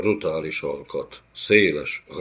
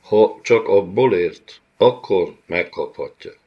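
clear and deliberate; 7 dB louder than usual. Acted. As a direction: pronounce the verdict plainly. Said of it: "tisztán, érthetően azt mondta".

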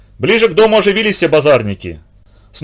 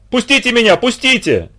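much higher, pretend frenzy; mock frantic shout; 9 semitones higher than usual. A narrator's reading. The kulak pretends to rush into the water, mock frantic cry. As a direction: beg to be let go, faked. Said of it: "кричал, мечась по берегу".

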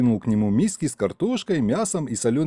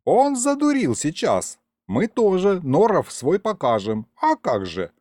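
lightly voiced old man; 7 semitones higher than usual. A narrator's reading. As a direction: explain it slyly. Grandpa explains, animated.

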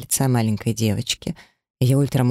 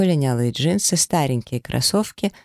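ordinary delivery

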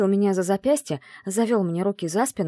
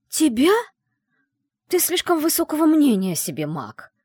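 high, louder scoff; scornful snort; 8 semitones higher, 5 dB louder than usual. Acted. Heroine scoffs at the mage's vanity. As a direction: dismiss him with a snort. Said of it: "фыркнула я".

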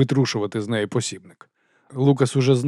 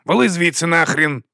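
thundered; 7 semitones higher, 6 dB louder than usual. Acted. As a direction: throw him out. Boss yells again.

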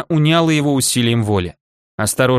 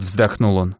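ordinary delivery

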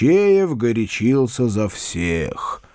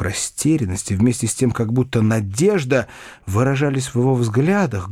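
usual speaking voice

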